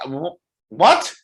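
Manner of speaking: loud, high stammered disbelief; indignant high squawk; taken aback. Real, not acted. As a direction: sputter it, playfully offended. Reacting to co-host's teasing.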